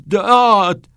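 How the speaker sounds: high, loud single yell; forced yell. A narrator's reading.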